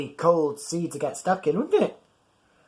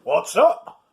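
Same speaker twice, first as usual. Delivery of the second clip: gasped; 6 semitones higher, 6 dB louder than usual. Acted. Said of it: "gasped the mate".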